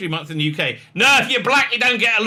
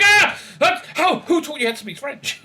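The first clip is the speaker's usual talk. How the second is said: wife's astonished question; 10 semitones higher than usual. Retold or imitated. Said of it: "And she's like".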